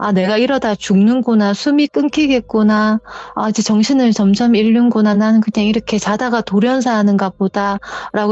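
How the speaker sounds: normal talking voice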